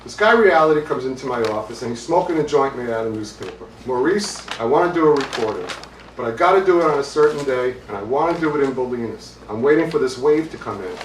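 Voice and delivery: put-on animated storyteller with a touch of Brooklyn accent. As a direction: imitate a Brooklyn guy's accent. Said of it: "think of a guy with a Brooklyn accent going".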